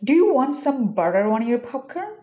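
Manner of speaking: very slow, each word spaced out; slow demo sentence. Shown as a demonstration. Teacher modeling the sentence slowly for students. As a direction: spell out the sentence slowly for learners. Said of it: "আমরা এটা সেন্টেন্সে ব্যবহার করতে পারি".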